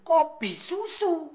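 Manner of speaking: high, slow, whiny mimic of Pakde calling; mimicking the boss. Servant mocking boss's whiny summons for coffee. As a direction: drag out the drink names like a demanding old master. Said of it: "manggil lagi".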